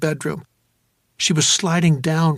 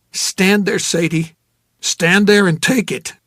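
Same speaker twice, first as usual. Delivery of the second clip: a touch of firm command; 3 semitones higher, 4 dB louder than usual. Acted. Holding her under the shower.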